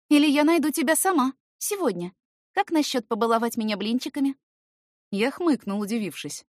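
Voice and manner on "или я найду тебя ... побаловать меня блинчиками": high playful threat; teasing young woman. Acted. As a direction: tease him with a sweet threat. Girl's voice.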